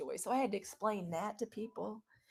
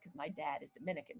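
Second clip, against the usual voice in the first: confiding aside; 5 semitones lower, 9 dB quieter than usual. Retold or imitated. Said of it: "She's like".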